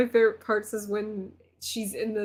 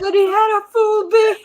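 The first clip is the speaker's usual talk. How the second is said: excited; 10 semitones higher, 7 dB louder than usual. Retold or imitated. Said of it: "when Beth goes".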